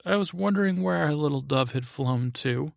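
high-pitched imitation of a tipsy queen; drunken cruel queen. Drinking queen to her little dove, imitated drunken cruelty. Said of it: "her drunken, mm, cruelty".

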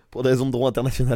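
loud and quick, amid laughter; laughing. Real, not acted. Host piling onto the banned-sport joke, laughing. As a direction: laugh your way through it.

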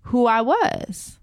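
high, slow, voice close to breaking; real hurt welling up as she speaks; emotional, slowed and strained; getting emotional. Real, not acted. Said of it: "I'm getting emotional right now".

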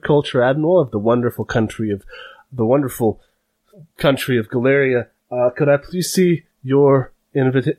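a stiff rookie guard reciting his greeting; eager new guard. Acted. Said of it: "And he says".

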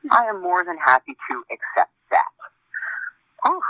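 slightly winded from walking, breathing hard. Real, not acted. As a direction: talk while catching your breath after walking. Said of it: "sorry if I'm a little out of breath".

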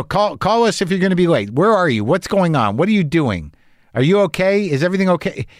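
mildly worried rapid-fire questions; imitated parental panic. Parents checking on their child, mock worry. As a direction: fret like an anxious parent. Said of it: "Just, just panic".

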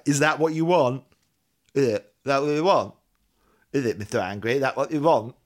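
loud, badgering repeated question; mock scolding. Mock scolding Mister Angry.

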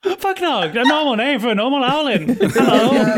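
high-pitched owl-person voice; owlin Fugnog. Acted.

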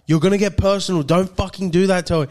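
imitated angry warning. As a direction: warn him off like an angry mate. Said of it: "Maz is getting fully angry".

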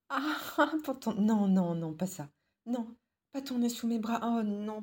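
squealing, laughing protest; being tickled. Acted. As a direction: giggle and squirm through the words. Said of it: "tu me renifles les aisselles".

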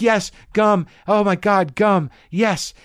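high, loud grateful gasp; desperate eagerness. Retold or imitated. Tripping kid offered gum by a stranger, high and eager. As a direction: grab at it like salvation.

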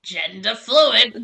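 put-on slow jokey New Zealand accent. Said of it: "saying transgender in a New Zealand accent".

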